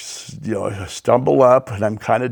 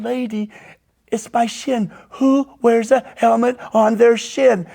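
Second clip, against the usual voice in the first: exasperated protest; 10 semitones higher than usual. Retold or imitated. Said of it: "And I'm going".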